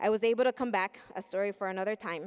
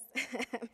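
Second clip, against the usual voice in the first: nervous laugh; 3 semitones higher, 4 dB quieter than usual. Real, not acted. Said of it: "I'm nervous".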